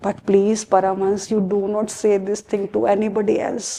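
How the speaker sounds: low, soft plea for secrecy; confiding. Acted. Asks listener to keep it secret.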